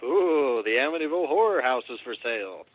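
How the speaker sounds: mimicking gawkers with a rising, swooping ooh; mock intrigue. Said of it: "people are like".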